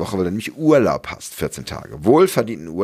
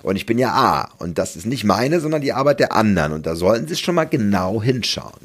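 lightly voiced know-it-all, a bit higher; 4 semitones higher than usual. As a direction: correct the boss like a smug know-it-all. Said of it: "etwas besserwisserische Stimme". (leicht besserwisserischer Ton, etwas höher)

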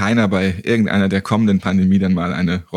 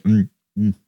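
savoring hum over coffee; 3 semitones lower than usual. Real, not acted. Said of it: "ich schlürfe hier schon mal ganz frech".

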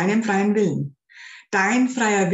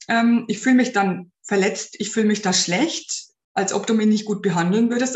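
gentle but firm. Shown as a demonstration. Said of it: "einer ganz normalen, ruhigen, aber festen Stimme".

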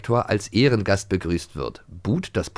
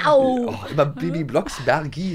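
mayor catchphrase; 6 semitones higher, slower than usual. Retold or imitated.

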